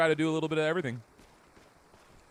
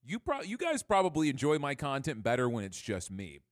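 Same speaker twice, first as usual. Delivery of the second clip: talking while chewing; words round a mouthful of mac and cheese; mouth full. Real, not acted. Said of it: "I'm sorry, I'm eating mac and cheese right now".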